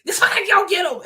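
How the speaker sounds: high goblin-voiced order; seething, like a goblin; Green Goblin snarl. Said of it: "I turned into a goddamn Green Goblin".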